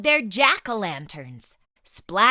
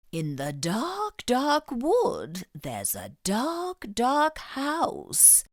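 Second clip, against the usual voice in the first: ghost story whisper; slower than usual. Acted. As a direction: hush them with a creepy tale. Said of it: "whispered in her best ghost story voice".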